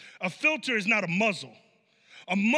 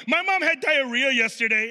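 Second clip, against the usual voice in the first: put-on louder childlike blurt; imitating a little kid; 4 semitones higher, 5 dB louder than usual. Child telling the preacher about mom's diarrhea, blurted. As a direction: blurt it out like a kid sharing news. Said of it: "kids come up to me and go".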